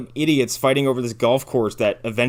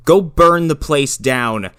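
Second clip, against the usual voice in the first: slow and louder, like a blunt order; slow loud command; 7 dB louder, much slower than usual. Retold or imitated. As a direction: spell out the arson plan slowly and loudly. Quoting Hal's first plan.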